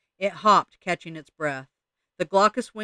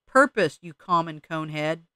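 cheeping bird; 5 dB louder than usual. Acted. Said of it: "cheeped the junco".

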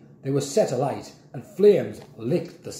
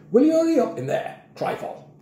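high, louder hurrying call; impatient grandpa; 13 semitones higher, 3 dB louder than usual. A narrator's reading. Grandpa knocking on the toilet door, impatient call. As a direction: chivvy someone through a closed door.

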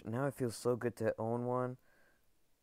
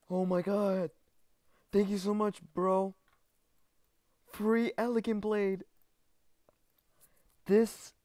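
high-pitched, stunned gratitude; overwhelmed excitement; 9 semitones higher, 5 dB louder than usual. Real, not acted. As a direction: react to an unbelievable free gift. Stunned by a free rare knife.

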